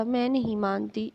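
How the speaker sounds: ordinary delivery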